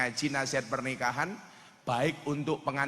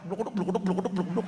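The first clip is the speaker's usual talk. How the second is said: scolding noise; 4 semitones higher than usual. Shown as a demonstration. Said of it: "kayak gini".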